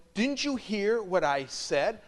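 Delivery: high, loud slow protest; insistent student. Retold or imitated. Student insisting to the priest, high and loud. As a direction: press it like an annoyed teen.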